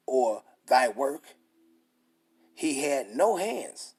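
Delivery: slow, weighty reading of the verse; scripture reading. Acted. Preacher reading Romans to his listeners, slow and solemn. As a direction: read the scripture out slowly, like the pulpit.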